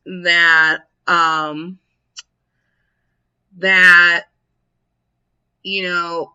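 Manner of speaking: hammed-up earnest understanding; mock serious. Shown as a demonstration. Showing how to answer a know-it-all, with mock seriousness. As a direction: feign sincere, considered sympathy, halting. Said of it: "as much seriousness as you can".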